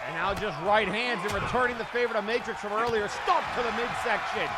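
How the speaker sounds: excited live ring commentary; wrestling commentator. Acted. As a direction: call the match blow by blow.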